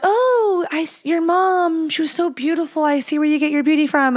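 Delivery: high-pitched imitation of gushing praise; gushing admirer. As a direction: gush admiringly, voice lifted high. Imitating people gushing over her mother.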